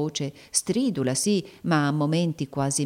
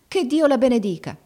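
much higher, louder cry of relief; grateful exclamation; 8 semitones higher, 5 dB louder than usual. Acted. Girl thanks the old woman, relieved and loud. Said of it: "esclamò la ragazza".

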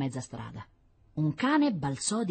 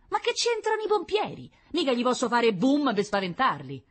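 grumbling waiter; 10 semitones higher than usual. Acted. Augusto answers back.

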